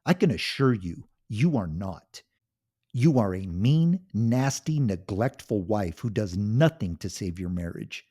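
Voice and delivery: loud, high furious yelling; a husband exploding at his cruel wife; angry shout. Acted. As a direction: finally fight back, full volume. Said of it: "He shouted".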